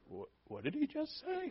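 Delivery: high, hushed startled whisper; a shocked whisper from the pews; shocked listener. Retold or imitated. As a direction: gasp out the question in disbelief. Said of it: "some who listening who said".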